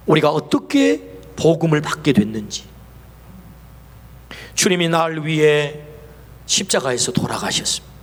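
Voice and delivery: ordinary talk, nothing marked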